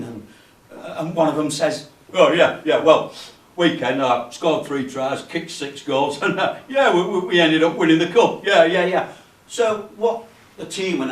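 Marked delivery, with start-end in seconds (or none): 2.1-9.1 loud, bragging workmate in banter; boastful lad. Acted. Lad brags to the tea room about his weekend, boastful.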